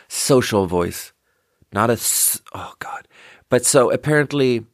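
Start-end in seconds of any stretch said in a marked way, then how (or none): 0.1-1.1 "Social voice" slow and low with careful S's; practised soft S. Shown as a demonstration. Trying the trained S in social speech, careful. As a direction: measure out each S in "Social voice". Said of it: "work that into your social voice".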